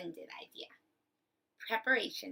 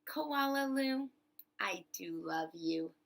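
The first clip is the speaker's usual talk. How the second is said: smiling mother. Acted. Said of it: "her mother would smile and say".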